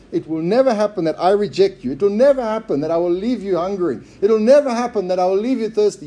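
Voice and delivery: NEVER stressed in each repeated promise; insistent NEVER. Retold or imitated. Preacher voicing Jesus' promise to listeners, insistently stressing NEVER. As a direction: drive through, hitting NEVER every time. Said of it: "strongest possible way to say never".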